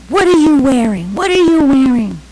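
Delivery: high, loud mock motherly yell; shocked outcry. Italian mother sees daughter's sari, shocked outcry. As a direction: shriek it as an appalled mother.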